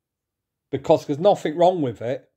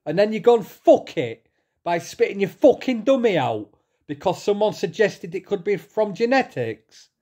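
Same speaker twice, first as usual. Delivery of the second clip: higher-pitched indignant complaint; real angry outburst; 6 semitones higher than usual. Real, not acted. Vlogger scolding Paul Venice over autism remark, angry. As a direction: let the disappointment boil into anger. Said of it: "I'm that mad".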